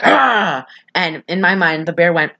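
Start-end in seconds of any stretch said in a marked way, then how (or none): 0.0-0.7 mock yelp. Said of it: "Leslie Nielsen's like".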